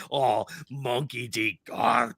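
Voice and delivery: slow, hammed-up Scottish accent. Shown as a demonstration. Host showing how they talk about Garp, Scottish accent. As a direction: stretch the name out in broad Scottish. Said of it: "bust out my Scottish accent".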